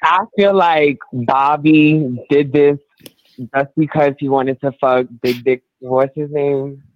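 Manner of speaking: high, slow and rambling; stoned, dragging the words; stoner. Real, not acted. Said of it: "'cause you're high".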